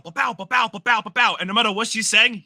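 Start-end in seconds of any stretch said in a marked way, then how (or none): 0.0-1.4 mimicking rapid chatter. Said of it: "he is just bow".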